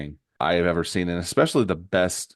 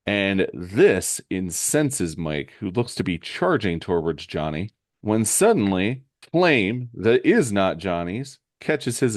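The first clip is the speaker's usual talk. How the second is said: comic-book narration. A narrator's reading. Telling Shane how Mike charges towards Johnny, dramatic narration. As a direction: build up to the surprise, taking your time.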